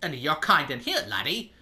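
dismissive Scottish governor, rough attempt; amateur Scottish brogue, scornful; Scottish accent. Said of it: "I'm gonna do some kind of Scottish accent".

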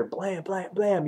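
punchy spoken gun blasts; imitated gunshots. Reviewer mimics guns in the background, punchy sound effects. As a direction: fire off the shots by mouth. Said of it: "he's, like, shooting the guns".

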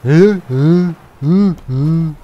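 loud, short repeated hey; calling for attention. Pretend. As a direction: hail someone who ignores you. Окликает молчащих стражников. (громкий оклик)

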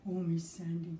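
scared whisper. Acted. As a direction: whisper it like a frightened child.

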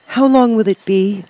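put-on high-pitched little girl voice; Dorothy, little girl. A narrator's reading. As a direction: ask as a small child, pitched high. Child's question in story.

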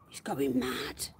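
slow, soft whispered aside. Real, not acted. Owner whispering about her excited rabbit. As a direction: breathe it, don't startle them.

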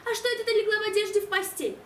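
a mother's lightly surprised question. Acted. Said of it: "спросила мама".

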